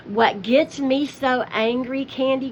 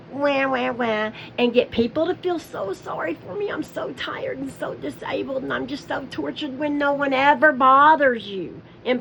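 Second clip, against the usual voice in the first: mock crying. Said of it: "you have figured out a way to cry".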